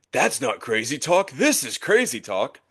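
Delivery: pitch swinging widely around, cartoon-style. Mimicking how someone not on the show would respond, in a Patrick Star voice. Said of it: "in his best Patrick Star voice".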